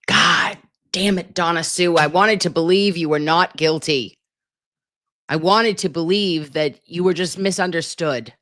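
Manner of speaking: half-mock betrayed rant; exasperated scolding. Real, not acted. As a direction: tell her off like she let you down. Scolding the suspect Donna Sue.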